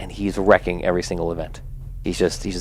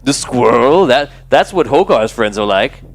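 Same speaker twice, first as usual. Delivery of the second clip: mocking teen bully; 3 dB louder than usual. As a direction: point and jeer at him. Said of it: "He goes".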